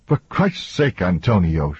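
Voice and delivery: acted fed-up woman; exasperated. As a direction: plead in exasperation, dropping at the end. Exasperated outburst in acted quarrel.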